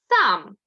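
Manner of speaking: teacher blends sounds into a syllable; blending demo. Shown as a demonstration. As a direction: join the sounds into Сам firmly. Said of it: "Називайте звук".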